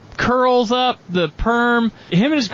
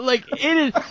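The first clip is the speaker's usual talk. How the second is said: usual speaking voice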